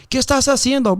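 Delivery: mock angry neighbor shout; neighbor yelling. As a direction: yell it down from the roof. Neighbor yelling over dogs.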